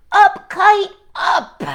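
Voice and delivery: loud high call to the kite; shouting up kite. Acted. Frog telling Toad to shout at the kite, loud high call. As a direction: yell it up at the sky. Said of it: "he shouted".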